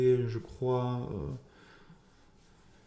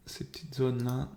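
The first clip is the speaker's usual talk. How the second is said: whisper; 4 dB quieter than usual. Real, not acted. Whispered aside over a chart.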